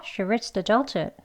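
words run together, adulthood clipped short; fast. Shown as a demonstration. Teacher modelling the sentence quickly for learners. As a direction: say it at a brisk natural clip. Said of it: "빨리도 해볼게요".

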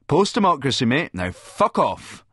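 loud, high-pitched booming dismissal; loud, emphatic send-off. A narrator's reading. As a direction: boom it out, slowing on the last words. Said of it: "I boom as I slam the door".

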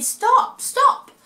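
very high, loud stop stop; high loud sheep cry; high sheep bleat. A narrator's reading. Sheep voiced in story.

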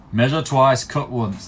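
a bad, half-hearted Yorkshire builder; mock Yorkshire accent, barely there; a hint of a Yorkshire builder; terrible Yorkshire accent. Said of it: "the most terrible Yorkshire accent ever".

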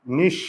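নিঃস split as "nish... sho"; নিঃস in two separate pieces, sh in both; doubled s sound. Shown as a demonstration. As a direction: close নিঃস on sh, pause, then sound sho. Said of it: "সটা দুইবার উচ্চারণ হবে".

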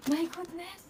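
whispered awe. Real, not acted.

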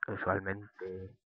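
estira muy despacio la palabra "usualmente", sílaba a sílaba; "usualmente" arrastrado y lento, como saboreándola; alargado despacio. Shown as a demonstration. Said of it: "me acabo de inventar una palabra". ("usualmente" pronunciado muy lento y alargado)

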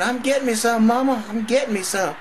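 very high, loud yell back at mama; defensive holler. Acted. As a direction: holler it, worked up and unashamed. Caught, yells back at mama.

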